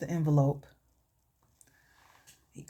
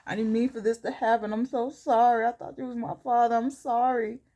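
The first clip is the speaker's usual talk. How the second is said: lightly whiny tearful apology, pitched up; mock crying; 4 semitones higher than usual. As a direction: imitate a crying girl apologising, a touch higher. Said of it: "And she's crying".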